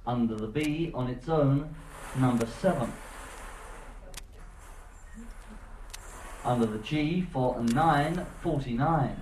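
bingo caller. Real, not acted. Cruise bingo caller calling numbers.

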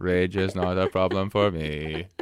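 slow flat robotic monotone. Pretend. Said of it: "That's my robot voice".

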